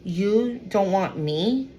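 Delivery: slow, drawn-out condescension; arrogant disbelief. Acted. Arrogant person to someone rejecting them, condescending. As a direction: act mildly affronted, stretching the question out. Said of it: "I get somebody very arrogant".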